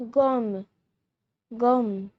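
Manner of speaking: gomme said GOM; French gomme. Shown as a demonstration. Teacher showing viewers how to say gomme, clear demo. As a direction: model gomme with a short o. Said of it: "We say rubber in French".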